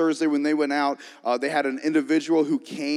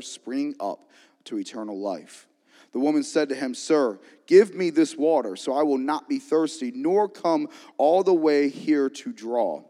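scripture reading. Real, not acted. Reads scripture aloud.

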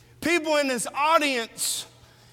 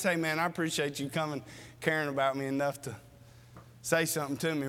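grateful friend; 9 semitones lower, 8 dB quieter, much faster than usual. Retold or imitated. Acted grateful friend quote.

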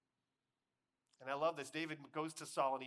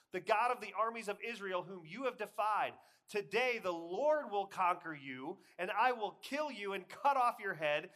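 loud, high, ringing battle speech; defiant declaration; 7 semitones higher, 11 dB louder than usual. A narrator's reading. David replies back to the Philistine, defiant shout. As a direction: proclaim it at full force to the enemy.

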